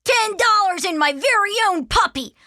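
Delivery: put-on high, loud, thrilled kid; bursting with delight; elated. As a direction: crow over the reward. Arthur delighted by reward.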